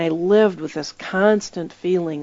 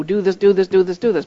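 mock demanding; 5 dB louder than usual. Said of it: "as though he's got a button".

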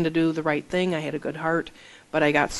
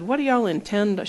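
put-on strong Southern accent; 5 semitones higher than usual. Church lady quizzing newcomers, strong Southern accent. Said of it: "she had a very strong, uh, accent".

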